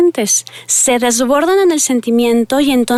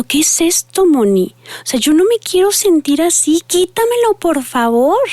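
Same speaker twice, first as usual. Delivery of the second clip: put-on pleading teen; 6 semitones higher than usual. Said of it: "me miran como diciendo".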